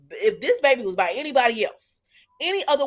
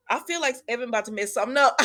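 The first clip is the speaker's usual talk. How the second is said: laughing; much faster than usual. Retold or imitated. Laughing retelling of own remark.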